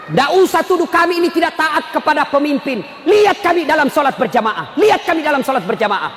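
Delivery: insistent preacher's rebuttal; emphatic preaching. Acted. Preacher defending Muslims' obedience to leaders, emphatic preaching. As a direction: drive each phrase out to the crowd.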